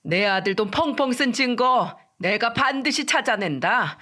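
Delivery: mildly menacing threat, slow start; through gritted teeth. Acted. Mother-in-law dragged away by police, threatening through gritted teeth. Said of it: "이를 악물고 말했어요".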